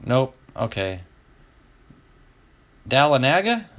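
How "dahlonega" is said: Dahlonega as TAL-uh-NAG-uh, rising; tentative pronunciation. Shown as a demonstration. Host guesses a city name for viewers, tentative pronunciation. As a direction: ask Dahlonega with flat "a" as in cat, twice. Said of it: "Like Talladega?".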